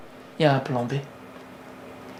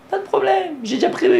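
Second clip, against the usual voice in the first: God reassuring Moses; 12 semitones higher than usual. Acted. God answers Moses, acted.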